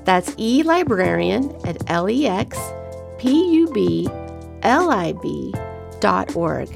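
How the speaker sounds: announcer-style sign-off read over music; podcast outro. Acted. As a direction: read it like a show closing.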